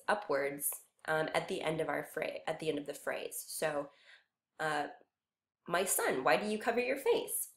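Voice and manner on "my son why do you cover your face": "face" lifted at the end as a question; rising question. Shown as a demonstration. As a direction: let the pitch climb naturally through to "face". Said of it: "Your voice naturally rises, right?".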